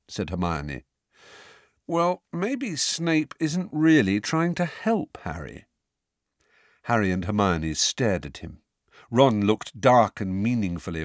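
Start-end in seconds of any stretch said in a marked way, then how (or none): 1.9-5.7 ominous. A narrator's reading. Ron darkly hints.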